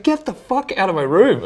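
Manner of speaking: high, loud imitation of an angry friend; retold angry yell. Friend kicks him out of her room, mock angry yell.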